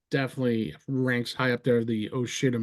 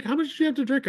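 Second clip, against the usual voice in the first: imitating cop; 11 semitones higher, much faster than usual. Cop questioning, retold.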